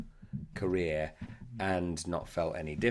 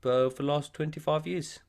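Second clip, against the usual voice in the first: higher South African accent; South African accent, pitched up and easy; 6 semitones higher than usual. Shown as a demonstration. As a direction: drop into a Jo'burg South African voice. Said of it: "You got South African".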